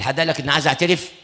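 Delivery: a mild mock snap at the priest; snapping. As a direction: retell his sharp retort, lightly. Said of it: "بشخط كده". (الأب المريض يزجر الكاهن بحدة خفيفة)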